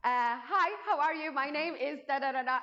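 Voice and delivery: hesitant greeting. Retold or imitated. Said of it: "I start like".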